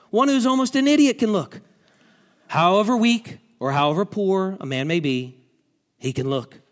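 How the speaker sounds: a hint of a plain lay preacher, rising on look; lightly voiced country preacher. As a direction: retell the preacher's plain words with mild emphasis. Preacher voiced in retold sermon.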